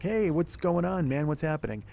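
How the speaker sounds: mock casual friend; pestering guy. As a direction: play the pushy buddy checking in. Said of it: "that guy who's like".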